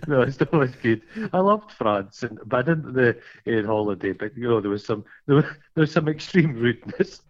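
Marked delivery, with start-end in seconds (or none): none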